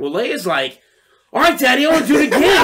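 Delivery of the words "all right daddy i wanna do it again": put-on high, loud eager kid voice; excited child. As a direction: mimic a kid clamouring for more. Retold child begging for another go.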